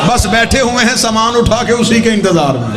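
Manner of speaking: sustained sermon call, slowing at the close; impassioned preaching. Real, not acted. Preacher telling congregation death is beautiful, impassioned preaching. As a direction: draw out the final declaration to the crowd.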